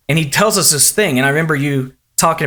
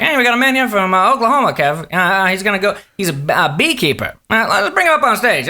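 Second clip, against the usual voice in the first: lightly imitated monologue host, often higher; Jay; 4 semitones higher than usual. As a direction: banter to the bandleader, half in character. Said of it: "he's like".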